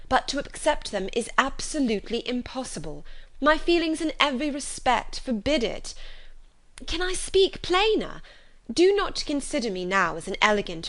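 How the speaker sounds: lightly voiced Elizabeth, firm and sincere in her refusal; earnest young woman. Elizabeth refusing Collins's proposal.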